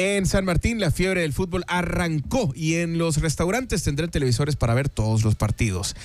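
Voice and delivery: lively announcer read with a lifted start; sponsor ad read. Acted. Host inviting fans to restaurants for matches, ad read. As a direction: sell it phrase by phrase to listeners.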